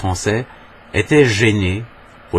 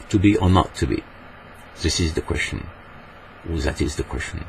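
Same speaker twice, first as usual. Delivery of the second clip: French accent; 3 semitones lower, 5 dB quieter than usual. Shown as a demonstration. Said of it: "En français, on dirait".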